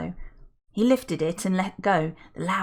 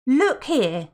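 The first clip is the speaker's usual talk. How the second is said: put-on gushing older woman; 6 semitones higher, 5 dB louder than usual. Felicity protests.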